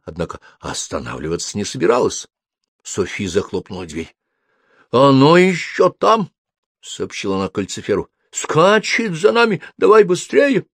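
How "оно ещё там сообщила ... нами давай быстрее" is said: alarmed urging. A narrator's reading. Frightened Sophie urging the demon.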